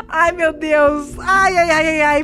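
gritinhos agudos de medo, rindo nervoso; apavorada, voz alta e trêmula; streamer de terror com medo. Real, not acted. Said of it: "eu tô com medo". (streamer assustada com riso nervoso)

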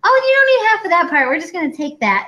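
breezy high doctor, waving it off; mock doctor voice. Mocking the doctor who shrugs off her organs. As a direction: play a cheerful surgeon shrugging it off. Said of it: "the doctor's like".

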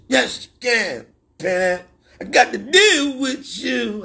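high mock voice with a fake sob; hammed-up crying parody; mock whine. Continues the mock voice.

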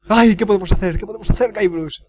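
mock-despairing wail; weeping cook. Cook begging Guybrush for an answer, in mock weeping. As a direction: lament it with hammed-up helplessness. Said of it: "Está llorando, pobre cocinero".

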